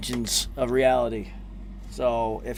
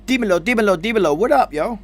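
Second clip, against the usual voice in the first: hype greeting; 6 semitones higher, 5 dB louder, faster than usual. Real, not acted. Hype greeting on joining stream.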